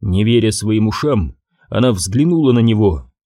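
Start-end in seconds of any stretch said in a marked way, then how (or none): none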